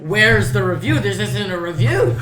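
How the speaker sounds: retold teacher scolding. Retelling teacher's complaint.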